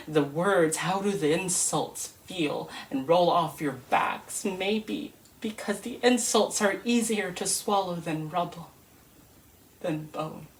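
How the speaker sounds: steady, grave spoken-word reading; poem recital. Acted. Reciting a refugee poem to listeners, grave spoken word. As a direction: recite it like testimony, heavy and measured. Recites Home by Warsan Shire.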